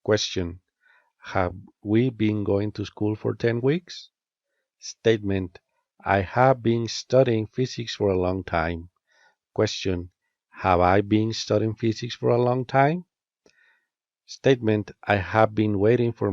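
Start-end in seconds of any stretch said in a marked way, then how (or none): 1.2-4.1 rising intonation ending on "weeks"; rising question tune. Shown as a demonstration. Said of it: "use a rising intonation at the end". 10.5-13.1 rising intonation ending on "time"; rising question tune. Shown as a demonstration. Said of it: "use a rising intonation at the end".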